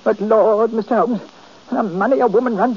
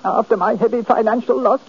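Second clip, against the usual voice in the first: a touch of wounded lament; mildly tearful self-pity; blubbering self-pity. Acted. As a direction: lament as a wronged old man. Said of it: "stop that blubbering".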